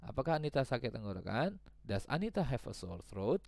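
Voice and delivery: Apakah and Anita lifted in a rising question tune; question rise. Shown as a demonstration. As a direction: ask it as a question, rising at the end. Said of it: "ini tanda tanya mestinya ya". (nada bertanya yang naik)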